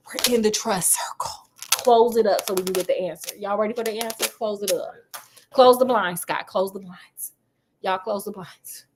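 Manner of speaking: hushed, half-whispered secret-sharing; playful hush-hush aside; mock conspiratorial. Mock secret trust circle.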